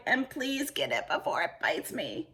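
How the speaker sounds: high, pleading voice; squeaky scared plea; frightened cry. A narrator's reading. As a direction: beg for help in a panic. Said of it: "cried Cowboy McCoy".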